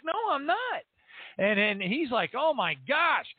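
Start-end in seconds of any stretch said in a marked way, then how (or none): 0.0-0.8 very high-pitched retold denial; re-enacted emphatic protest; excited insistence. Retells insisting to manager. 2.3-3.3 high-pitched astonished quote; astonished manager impression; retold amazement.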